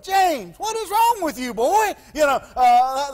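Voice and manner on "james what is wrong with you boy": put-on high, exasperated parent calling a child; Archie. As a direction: imitate a let-down father scolding his boy. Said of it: "I've heard Archie do it".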